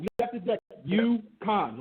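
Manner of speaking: slow it down, stretching "Yukon" into two separate beats; "Yukon" drawn out for the listener; spelled-out emphasis. Shown as a demonstration. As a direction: say "Yukon" slowly and deliberately.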